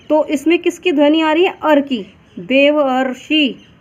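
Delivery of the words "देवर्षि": slow demonstration. Shown as a demonstration. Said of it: "उच्चारण करने पर".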